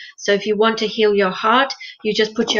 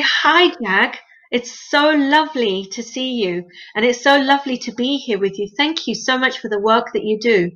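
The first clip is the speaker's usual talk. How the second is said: warm greeting. Shown as a demonstration. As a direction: greet him like a dear friend you're glad to see. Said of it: "Can you see the smile on your face?".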